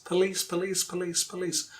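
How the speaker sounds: police repeated in a row, stress on the second syllable; repetition drill. Shown as a demonstration. Teacher models the practice drill, repeating police with end stress. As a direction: drill police as puh-LEECE, over and over. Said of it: "Say twenty times".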